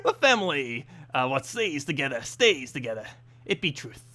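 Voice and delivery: lightly voiced piratey dwarf; a hint of pirate brogue on a dwarf. Dwarf sharing a clan saying, mildly piratey. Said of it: "That sounds way too much pirate".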